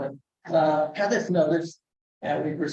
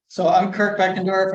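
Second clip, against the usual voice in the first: speaking up; 4 semitones higher, 5 dB louder than usual. Real, not acted. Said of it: "I got a really soft voice".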